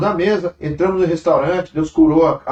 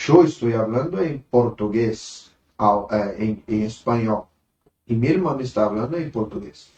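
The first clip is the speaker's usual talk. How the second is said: Spanish; 5 semitones lower than usual. Retold or imitated. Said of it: "Depois eu falei assim". (em espanhol, devagar)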